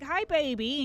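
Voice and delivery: loud, silly character voice; Alphys. Shown as a demonstration. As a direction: greet a girlfriend in a put-on character voice. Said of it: "Why are you talking like that?".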